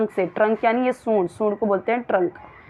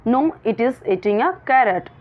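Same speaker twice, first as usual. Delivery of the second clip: slow reading aloud; much slower than usual. Shown as a demonstration. Reads slowly.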